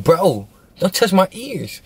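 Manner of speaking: warning the guard. Retold or imitated. To the guard reaching for his earrings, a high slow warning.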